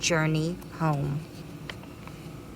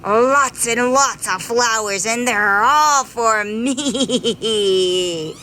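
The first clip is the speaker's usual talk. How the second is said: a bee relishing his secret; greedy bee gloating; 3 semitones higher, 4 dB louder, slower than usual. Acted. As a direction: savour every word like a greedy bee.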